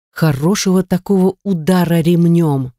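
ordinary delivery, nothing marked

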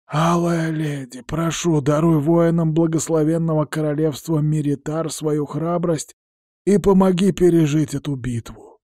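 earnest prayer. A narrator's reading. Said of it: "читал искреннюю молитву Сарил".

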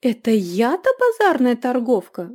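loud stung outburst; fly up as if stung; flaring up. A narrator's reading. Innkeeper stung by being called a market woman. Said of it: "взвилась трактирщица".

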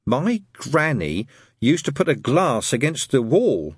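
put-on slow, drawn-out boy's voice; Brian, slow schoolboy. Boy tells friends about his granny, slowly. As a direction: take your time over the family tale.

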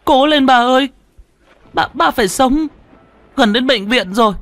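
high, loud tearful urging; sobbing call. A narrator's reading. Boy pushes his dying father through rain, sobbing. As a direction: plead through tears to hold on. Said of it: "mà nó mếu máo gọi".

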